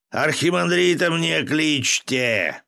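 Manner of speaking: drawn-out commanding shout; yelling. A narrator's reading. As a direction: call out over the monastery gate. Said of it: "заорал Волохов".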